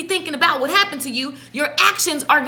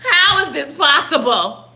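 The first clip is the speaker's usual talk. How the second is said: mock disbelief; slower than usual. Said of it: "you be like".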